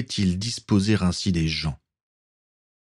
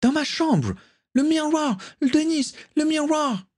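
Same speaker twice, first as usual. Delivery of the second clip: mild mock scream in a high young woman's voice; Caitlin screaming. A narrator's reading. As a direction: call his name desperately, pitched high. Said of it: "hurlait encore Caitlin".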